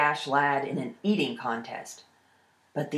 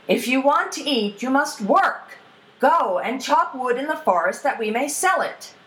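higher-pitched, insistent fatherly order; stern father; 6 semitones higher, 3 dB louder than usual. Acted. Father orders his idle eldest son to work, stern. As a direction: lay down the law as the father.

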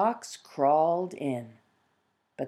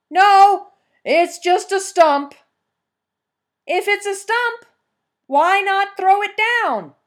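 much higher, loud hunter calling; hunter's voice; 9 dB louder than usual. Acted. Fox as hunter questioning the peasant about the stump.

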